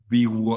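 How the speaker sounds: "V woo", the V sliding into a rounded w; German-accented V. Shown as a demonstration. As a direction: demonstrate "V woo" as Germans supposedly say it. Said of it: "they make the V like more woo".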